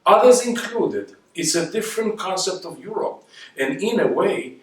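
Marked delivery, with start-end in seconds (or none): 0.1-3.2 high, insistent voice pushing back hard; impassioned no no no in Zweig's voice; Zweig's emphatic protest. Retold or imitated. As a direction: protest passionately as Zweig, a touch quicker. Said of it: "And Zweig said".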